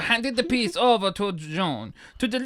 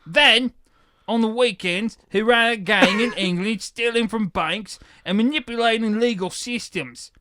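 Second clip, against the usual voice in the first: put-on Cockney accent; 2 semitones higher than usual. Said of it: "Cockney accent".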